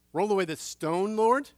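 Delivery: loud, rising disbelief; incredulous question. Acted. Mourners doubting Jesus, loud rising disbelief.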